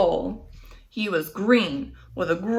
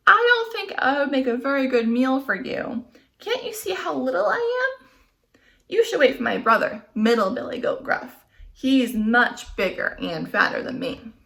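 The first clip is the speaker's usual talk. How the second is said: little goat voice; 5 semitones higher than usual. Acted.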